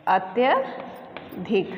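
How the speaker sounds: अत्यधिक very slow, each syllable clear; slow correct pronunciation. Shown as a demonstration. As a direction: teach अत्यधिक slowly. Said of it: "इसका शुद्ध वर्तनी होगा". (अत्यधिक धीरे, शुद्ध उच्चारण)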